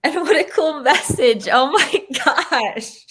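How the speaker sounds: thrilled and laughing; excited. Real, not acted. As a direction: gush with delight. Excited reaction to message.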